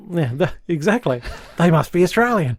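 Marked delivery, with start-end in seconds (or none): 1.6-2.6 high put-on Australian accent; mock Australian. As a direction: joke in a hammed-up Australian accent. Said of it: "joke about buff nudists".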